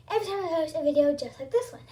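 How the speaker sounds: breathless after running; talking while catching breath. Real, not acted. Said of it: "Sorry, I'm out of breath".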